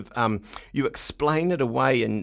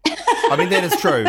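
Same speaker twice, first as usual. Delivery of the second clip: laughing; 5 semitones higher, 4 dB louder than usual. Real, not acted. Laughing at own joke.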